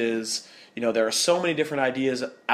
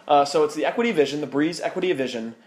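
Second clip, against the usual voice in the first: loud, high hammed-up radio announcer; 3 semitones higher, 5 dB louder than usual. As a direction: boom it out like a radio host. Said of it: "your best radio announcer voice".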